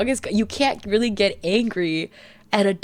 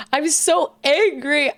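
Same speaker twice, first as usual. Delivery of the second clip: mock angry; 7 semitones higher, slower than usual. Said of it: "she's like".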